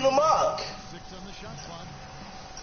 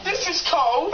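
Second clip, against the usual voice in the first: excited; 3 semitones higher, slower than usual. Real, not acted. Play button feels hot, then cold.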